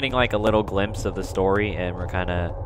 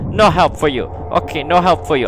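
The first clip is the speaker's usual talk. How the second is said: loud refusal, easing down; subsiding panic; 3 semitones higher, 4 dB louder than usual. Real, not acted. Player still refusing the ghost girl, panic easing. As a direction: keep refusing as the fright ebbs.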